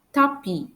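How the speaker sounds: tapis said "ta-pee", no S; silent final S. Shown as a demonstration. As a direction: leave the S off tapis. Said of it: "I don't pronounce the letter S".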